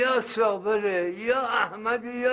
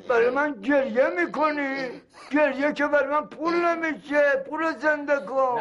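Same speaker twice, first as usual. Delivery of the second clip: raised, higher-pitched scolding; angry rebuke; 4 semitones higher than usual. Acted. Man demanding his money back from the family, angry rebuke. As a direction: scold them indignantly over the lost money.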